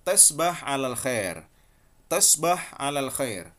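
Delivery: "tasbah alal khair" with "tesbah" and "xer" shortened; dialect pronunciation. Shown as a demonstration. Teacher modelling the dialect goodnight phrase. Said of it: "amiyah Saudi dan Mesirnya sama".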